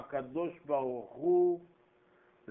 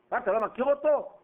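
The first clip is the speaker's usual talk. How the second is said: surprised; 7 semitones higher, 4 dB louder than usual. Acted. Preacher acts out brothers' surprise.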